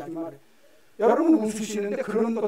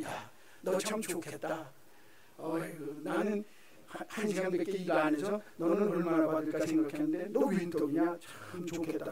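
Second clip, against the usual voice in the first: softer, lower sour envy; envious sarcasm; 5 semitones lower, 7 dB quieter than usual. Retold or imitated. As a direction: sulk out the jealous praise. Voices an envious coworker.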